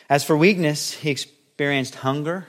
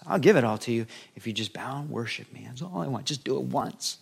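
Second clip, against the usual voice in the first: taunting devil, rising then sinking to a coaxing hush. Acted. Devil taunting Jesus in the desert, mocking then coaxing. Preacher voices the devil tempting.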